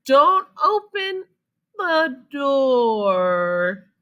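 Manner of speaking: high, slow urgent call; calling warning. Acted. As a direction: stop him in time. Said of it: "called his mom".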